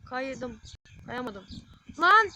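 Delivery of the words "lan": one high, very loud yell; angry outburst. Real, not acted. Gamer cursing after a missed slide tackle, angry shout. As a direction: explode on a single word.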